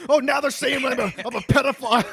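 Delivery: high, mocking whiny streamer voice; Jim Grindle impression. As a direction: squeal it back in outrage, half laughing. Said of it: "we just hear Jim Grindle, like".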